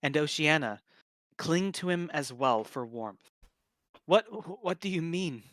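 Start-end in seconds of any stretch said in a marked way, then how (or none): 4.1-5.4 shivering, stammering from the cold; a hint of chattering teeth, jumping high at the start. Oceania freezing in the blizzard, stammering with cold. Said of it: "her teeth chattering".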